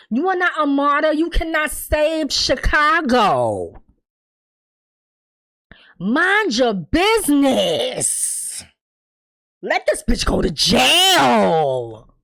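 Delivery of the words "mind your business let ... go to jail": slow scolding. Real, not acted. Scolding Victor at screen.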